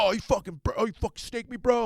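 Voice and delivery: high-pitched mock outrage; whine-yell like an aggrieved surf bro; angry surfer. Acted accusation from angry surfer.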